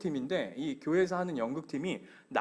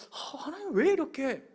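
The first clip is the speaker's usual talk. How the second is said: high-pitched comic lament of regret; half-joking, wistful "why, God" grumble; acted mild grumbling; 5 semitones higher than usual. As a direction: imitate someone moaning about past choices. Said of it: "이렇게 원망은 아니더라도".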